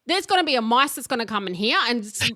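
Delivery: a fast hint of a scolding mother; scolding mum. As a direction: rattle off the mum's rant. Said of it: "she'd go".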